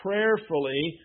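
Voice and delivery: prayerfully repeated on its own with deliberate weight; single out prayerfully between short pauses; stress on prayerfully. Real, not acted. Preacher repeating his key word to voters, prayerfully deliberately emphasized. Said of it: "and I emphasize that word".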